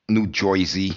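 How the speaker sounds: broad New Jersey accent on "Jersey". Shown as a demonstration. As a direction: say "New Jersey" like a local, "Joizy". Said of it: "I know the difference between New".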